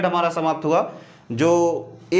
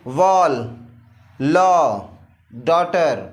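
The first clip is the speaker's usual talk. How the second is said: वॉल and लॉ called out louder, each one crisp; loud clear model words; 3 semitones lower, much slower than usual. Shown as a demonstration. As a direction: announce each example word clearly to the class. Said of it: "जैसे example देख लीजिए".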